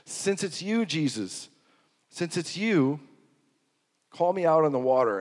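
confident, sure-of-it plea; convinced. Retold or imitated. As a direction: say it with full conviction that it's him. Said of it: "Peter was completely convinced".

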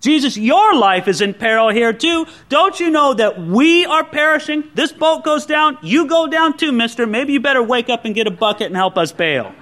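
a hint of sarcastic complaint; indignant protest. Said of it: "a protest against his apparent indifference".

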